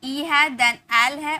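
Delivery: slow spelling out. Shown as a demonstration. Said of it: "देखिए ई है आपको देखने को मिल रहा".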